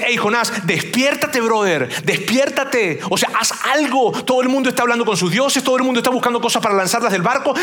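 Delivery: voz algo más aguda, urgente y apurada; apúrale como un capitán desesperado; capitán urgiendo. Retold or imitated. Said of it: "lo que le estaba diciendo el capitán a Jonás". (el capitán sacude a Jonás, urgencia fingida)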